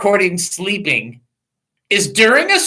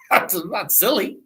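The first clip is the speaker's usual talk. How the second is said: laughing through it; giggling while protesting; 8 dB quieter than usual. Real, not acted. Host laughing at his own stalling trick. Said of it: "see how I stalled on that?".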